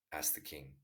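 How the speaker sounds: measured storytelling read; story narration. A narrator's reading. Narrator reading a Tolstoy tale to listeners, measured storytelling. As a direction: read the tale aloud, unhurried.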